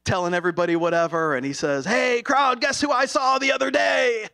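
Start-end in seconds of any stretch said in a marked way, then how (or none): 1.8-4.3 puppet voice. Retold or imitated. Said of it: "Ranger Walker had his puppet Gabby out".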